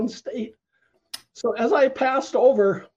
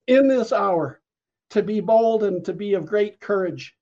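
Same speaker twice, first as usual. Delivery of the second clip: prophetic word. Retold or imitated. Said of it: "as he released this word to me".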